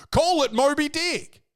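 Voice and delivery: excited. Real, not acted. Excited pitch of movie title.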